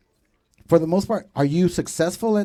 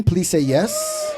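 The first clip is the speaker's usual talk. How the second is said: pleading shout; 3 semitones higher, much slower than usual. Real, not acted. Begging crowd for a response.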